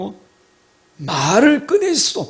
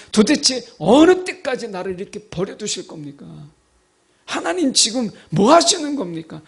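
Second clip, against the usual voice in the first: mock defiance; 2 semitones higher than usual. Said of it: "막 이런 식이잖아요".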